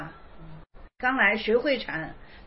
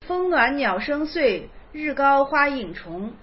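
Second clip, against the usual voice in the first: slow, solemn recitation of Zen verse; 3 semitones lower than usual. Acted. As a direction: intone each line slowly. (缓慢庄重地吟诵偈语)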